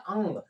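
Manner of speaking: अंग softly, closing on a faint g; nasal with light g. Shown as a demonstration. Teacher answering own question, अंग with light g. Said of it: "हल्का ग का".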